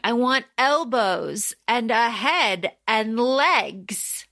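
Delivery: slow, earnest imitation of a character. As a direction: draw out each wish in mock earnest. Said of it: "he's so earnest about it".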